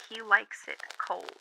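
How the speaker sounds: slow, hushed imitation of a possessed boy; creepy mock-possessed delivery; eerie quote. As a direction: draw it out slowly, almost whispered.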